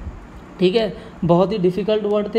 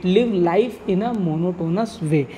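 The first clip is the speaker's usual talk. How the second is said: slow dictation; much slower than usual. Shown as a demonstration. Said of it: "वेजिटेट".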